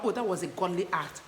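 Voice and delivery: put-on gushing praise for a toddler; praising a child. Shown as a demonstration. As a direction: cheer the child on like a proud parent. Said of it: "talk about".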